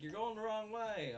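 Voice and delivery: high, loud shouted warning; calling out. Retold or imitated. Teachers on a boat calling out to the teacher on a Ski-Doo. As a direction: yell across the water.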